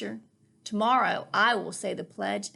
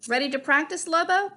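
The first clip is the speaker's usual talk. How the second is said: higher, louder eager question; eager child; 6 semitones higher, 7 dB louder, faster than usual. Acted. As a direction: bounce in with eagerness. Child eagerly calls to Lobo.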